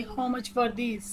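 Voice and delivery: very slow, each word laid out flat and even; slow robotic read. Shown as a demonstration. Teacher showing shoppers' phrase, slow and robotic. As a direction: drag it out word by word for learners. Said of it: "थोड़ा robotic वे में पढ़ के बता रही हूँ".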